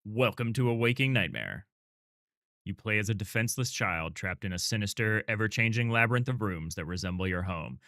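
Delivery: lightly done dark game narrator; announcer voice. Pretend. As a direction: read it like a grim trailer narrator. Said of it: "Let me do my announcer voice".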